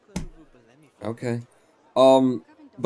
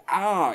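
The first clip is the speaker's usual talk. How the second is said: higher mock cry of pain; sharp pain cry; 7 semitones higher than usual. Shown as a demonstration. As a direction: cry out as if suddenly hurt. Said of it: "it wasn't like".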